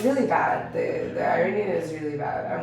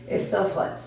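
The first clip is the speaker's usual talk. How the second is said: put-on Iranian accent; 3 semitones higher than usual. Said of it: "I'm trying to do an Iranian accent".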